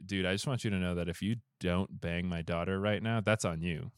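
low, casual dude-talk; deadpan man-to-man offer; a low-voiced, laid-back king; frank king. King's frank offer, acted.

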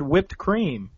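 WHIPPED with an H blown before the W; aspirated wh. Shown as a demonstration. Friend defending how he would say it, aspirated wh. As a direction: start WHIPPED on a "hw", drawn out slowly. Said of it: "I'd have said".

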